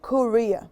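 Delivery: Korea as "ko-REE-a"; English pronunciation. Shown as a demonstration. Teacher repeating for learners, Korea as "ko-REE-a". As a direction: stress the middle syllable of Korea. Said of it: "In English we say Korea".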